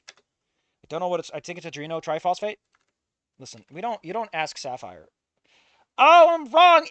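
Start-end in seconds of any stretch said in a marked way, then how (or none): 6.0-6.9 much higher, loud startled cry; sudden realization. Real, not acted. Streamer realizing his biology answer was wrong, startled yelp. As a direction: yelp as the mistake hits you.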